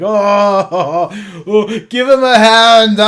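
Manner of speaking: high, loud troll guffaw; acted uproarious laughter. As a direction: howl with laughter at your own joke. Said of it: "The troll just starts laughing".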